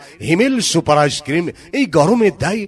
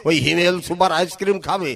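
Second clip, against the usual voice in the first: put-on old man voice; 4 semitones higher than usual. Skit old grandpa voice.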